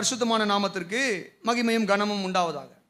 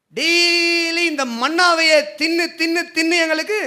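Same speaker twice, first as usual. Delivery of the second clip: mock complaint; 5 semitones higher than usual. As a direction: grumble as if fed up with the same food. Voicing Israelites complaining about manna. (சலிப்போடு புலம்புவது போல நடித்து)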